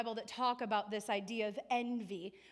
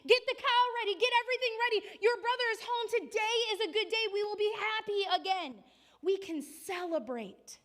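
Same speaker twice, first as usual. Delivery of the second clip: much higher, louder overjoyed shouting; father yelling with joy; 10 semitones higher, 5 dB louder than usual. A narrator's reading. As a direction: shout the good news across the fields. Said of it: "when he heard his father yell".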